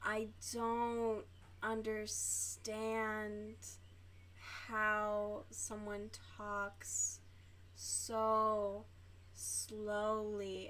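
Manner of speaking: very slow, drawn-out mock of her speech; imitating slow talker. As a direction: stretch every word like she does. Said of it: "that's what she sounds like".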